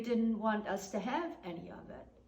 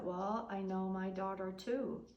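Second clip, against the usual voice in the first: soft, steady and calm; calm a nasty neighbour without rising; 5 dB quieter than usual. Retold or imitated. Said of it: "my mother stayed very calm".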